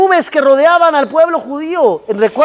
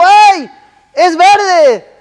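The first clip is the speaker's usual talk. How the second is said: higher-pitched indignant cry; alarmed mock protest; 6 semitones higher, 3 dB louder, much slower than usual. Passenger protesting to taxi driver at green light, alarmed.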